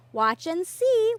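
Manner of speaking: slow, loud and high, gleeful; gleeful promise, drawn out. A narrator's reading. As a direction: savour it with glee. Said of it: "one traveler said with glee".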